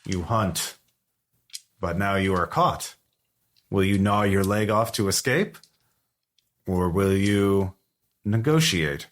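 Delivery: a lightly voiced monster speaking through a castaway. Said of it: "through the castaway's voice, it says".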